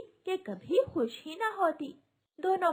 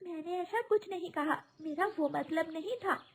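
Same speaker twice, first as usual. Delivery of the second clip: higher, lightly voiced young bride denying it; bride protesting; 5 semitones higher than usual. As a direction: defend yourself, a little hurt. Bride defends herself.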